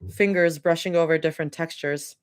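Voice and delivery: a small burp mid-sentence; words pushed out on a burp. Real, not acted. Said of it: "Little, little burp".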